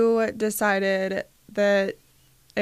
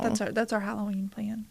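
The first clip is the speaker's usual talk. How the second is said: whispered; 7 dB quieter, faster than usual. Real, not acted. Wrapping up the topic.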